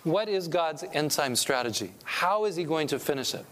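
normal talking voice

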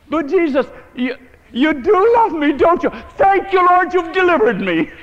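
high, slow, rising to a near cry of joy; joyful prayer. Retold or imitated. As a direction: pray like a woman overwhelmed with joy. Retells Bertha's joyful prayer.

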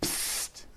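unvoiced hiss to catch attention; imitated psst. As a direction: hiss softly at someone passing by. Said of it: "he's going".

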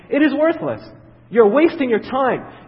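emphatic warning. Acted. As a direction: hammer the point home. Preacher warning the church.

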